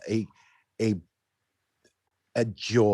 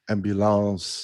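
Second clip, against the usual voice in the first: ambulance the French way, nasal last syllable; French accent. Shown as a demonstration. Retelling a video meme's French speaker, French accent. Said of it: "the French person says".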